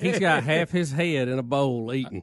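laughing. Real, not acted. Laughing at dog eating.

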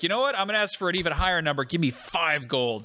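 lightly voiced goblin, starting high, slowing at the end; a hint of a self-satisfied goblin haggler; cocky goblin. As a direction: make a foolish demand like it's a clever one. Goblin outwitted, raises his demand.

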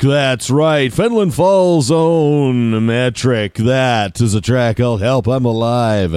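smooth, slow radio back-announce. Shown as a demonstration. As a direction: announce it like a late-night DJ. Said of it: "what do you think of my radio voice?".

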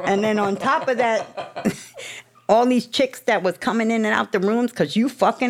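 laughing through the words. Real, not acted. Recounting his disciples to the group, laughing. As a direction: chuckle while telling it, voice a bit up.

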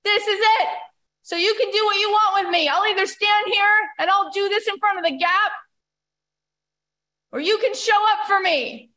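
high, insistent mock shouting; imitated scream. Busker giving God an ultimatum, retold scream. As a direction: call it up defiantly into the night sky. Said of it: "screaming it into the night sky".

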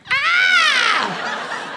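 high, slow mock shriek; hammed-up laughing yelp; teacher yelp. Nursery teacher acting out her shock, high mock shriek. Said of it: "she goes".

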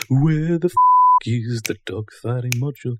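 slow, loud, drawn-out angry demand. Shown as a demonstration. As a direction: draw out the swear in anger. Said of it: "you just sound angry".

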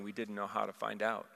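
quiet, a touch of tearful lament; weeping crowd. Retold or imitated. Preacher voicing the crowd in his vision, quiet and mildly tearful. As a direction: let it fall soft like many mourners. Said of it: "weeping and crying, saying".

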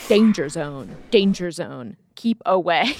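lightly mimicked robotic alarm voice; imitating a warning sensor. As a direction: echo the sensor's warning in a mild mock-machine tone. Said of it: "that shouted".

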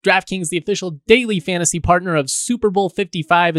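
upbeat sponsor ad read; booming prize announcer. Acted. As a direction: sell it like a hyped-up promo. Reads a sponsor ad.

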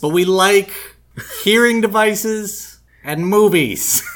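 slow, loud nasal drawl; David Lynch impression. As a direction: stretch it out like Lynch. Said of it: "I had a David Lynch impression".

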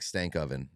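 Stankoven said as "stank oven", short vowel. Shown as a demonstration. Joking that the player is cooking, Stankoven as "stank-oven". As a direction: pronounce Stankoven like an oven that stinks. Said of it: "'cause that thing be stankin' and it be cooking".

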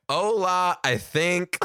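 clueless greeting. Retold or imitated. Acts greeting the Latin class.

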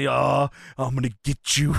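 hammed-up shout of revenge from the floor; mock angry yell. Retelling the beaten Booker's threat at Austin, in a mock angry yell. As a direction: yell the threat like a beaten villain, half-joking.

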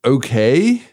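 high, drawn-out prim English voice; posh English accent. Retold or imitated. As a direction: play a prim English mother, slow and lilting. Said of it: "She goes".

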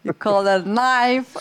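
put-on effortful amateur Australian accent on "knife"; attempted Australian accent. Guest attempting the film line on request, Australian accent. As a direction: throw yourself into the Australian "knife". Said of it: "throw your head into it".

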